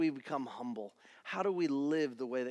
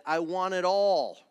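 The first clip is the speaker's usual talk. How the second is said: quoting Queen loudly; 7 dB louder than usual. Retold or imitated. Preacher belting the Queen lyric to the church. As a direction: belt it out like the Queen song. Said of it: "The great theologian Queen said".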